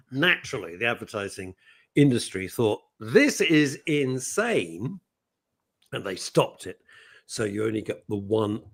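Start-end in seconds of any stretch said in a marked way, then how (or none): 3.0-5.0 retold disbelief. Acted reaction of advertising industry.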